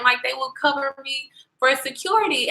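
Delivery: talking through hiccups. Real, not acted. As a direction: hiccup between the words. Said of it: "I got the hiccups".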